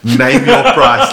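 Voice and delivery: slow quote through laughter; laughing mock organizer; laughing retelling. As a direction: repeat the line while cracking up. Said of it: "when the organizer goes".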